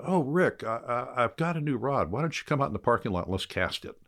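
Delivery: lightly voiced cheerful old pro; Lefty's eager invitation.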